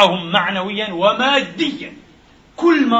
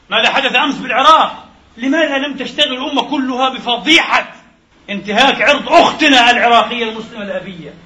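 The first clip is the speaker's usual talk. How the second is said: raised, indignant pulpit cry; outraged; 4 semitones higher, 5 dB louder than usual. Real, not acted. Preacher rails at the congregation in outrage. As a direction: thunder out the outrage higher and louder.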